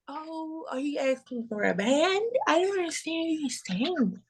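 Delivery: mocking confused people. Mocking people who don't understand her. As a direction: imitate people pretending not to understand. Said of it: "everybody always act like".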